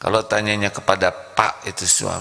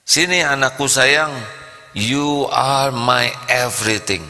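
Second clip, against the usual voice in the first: loving parent calling; 2 semitones higher than usual. Acted. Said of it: "Seorang tua manggil anaknya".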